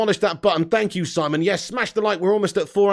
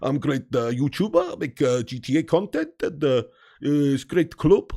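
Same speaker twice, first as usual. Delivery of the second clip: Snake Fraser impression; 3 semitones lower than usual. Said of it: "I sound like Snake Fraser".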